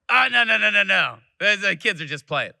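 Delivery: quick, loud "oh no no no" brushing it off; hasty reassurance. Retold or imitated. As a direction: wave off the worried guest, high and loud at first. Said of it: "reassuring guests about thuds".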